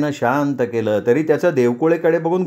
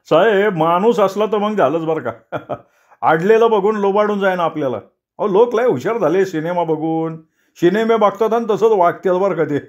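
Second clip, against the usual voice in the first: higher, chuckling tease; teasing with laughs; 5 semitones higher than usual. Acted. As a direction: laugh while scaring the sahibs. (हसत हसत चिडवणं)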